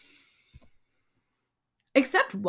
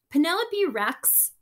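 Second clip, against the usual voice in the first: dad asking; 7 semitones higher, 4 dB louder than usual. Acted. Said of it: "her father asked".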